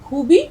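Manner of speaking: خوبی said with a hard kh as کھوبی; خوبی with an aspirated k, the wrong way; wrong pronunciation demo. Shown as a demonstration. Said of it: "خے کی آواز نکالیں گے آپ". (خوبی کو غلط، کھ کی آواز سے)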